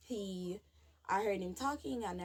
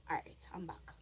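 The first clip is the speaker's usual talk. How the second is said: recovering from tears; 3 semitones lower, 5 dB quieter than usual. Real, not acted. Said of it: "one second".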